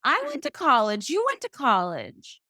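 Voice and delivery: hammed-up outrage at the unfairness; indignant disbelief. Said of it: "I was like".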